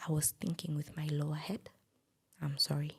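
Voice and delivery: retold deadpan apology, evenly pitched; straight-faced. Woman quoting her man's excuse for cheating, straight-faced. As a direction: deliver the confession with a straight face. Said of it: "With a straight face".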